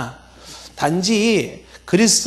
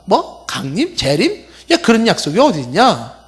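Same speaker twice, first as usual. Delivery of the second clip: incredulous scoffer, rising echo questions; mocking; 3 semitones higher than usual. Preacher plays scoffers questioning the promised coming, mocking. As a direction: toss each word back in mock disbelief. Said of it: "조롱하는 사람의 조롱 내용이".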